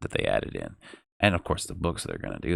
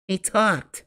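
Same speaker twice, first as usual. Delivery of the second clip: put-on boyish, much higher excited cry; excited shout; 11 semitones higher than usual. A narrator's reading. A boy crying out in joy that his pet spoke. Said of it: "Billy shouted".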